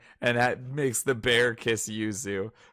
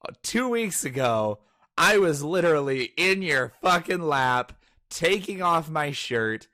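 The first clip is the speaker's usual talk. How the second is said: May ranting; 4 semitones higher than usual. Retold or imitated. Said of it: "May's just like".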